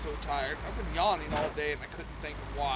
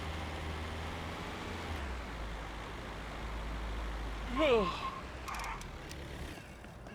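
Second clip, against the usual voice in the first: long, low yawn; yawning sigh; 11 semitones lower, 5 dB quieter than usual. Real, not acted. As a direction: let out a big tired yawn. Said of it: "Why do I keep yawning?".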